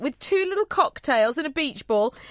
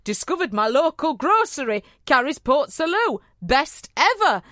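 put-on northern accent. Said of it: "Sorry about that northern accent".

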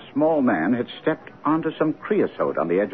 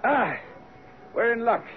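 eager discovery; 11 semitones higher, 3 dB quieter than usual. Acted. Finding the trail.

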